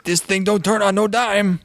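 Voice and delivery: a hint of the Cajun boat captain; boat captain Cajun accent. Quoting the Scooby-Doo boat captain, light Cajun accent. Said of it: "all I remember him saying is".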